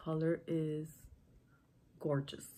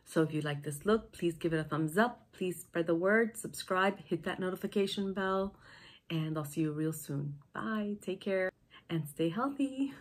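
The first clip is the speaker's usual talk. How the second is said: nasal voice; 4 dB louder than usual. Real, not acted. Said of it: "sorry about my nasal voice".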